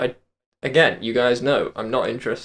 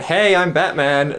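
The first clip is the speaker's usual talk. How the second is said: undisguised superhero introduction, lightly raised pitch; slow, unmasked hero greeting; Batman without the voice; 5 semitones higher, 4 dB louder, slower than usual. Shown as a demonstration. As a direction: announce it openly in an everyday voice, drawn out. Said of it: "wouldn't really work the same".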